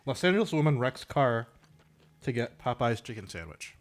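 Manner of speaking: talking through a mouthful of food; chewing while reading the headline; mouth full. Real, not acted. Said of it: "I'm gonna talk with my mouth full".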